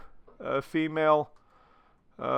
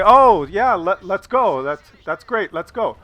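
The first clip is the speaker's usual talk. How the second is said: overeager; 3 semitones higher, 4 dB louder than usual. Pretend. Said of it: "you could say".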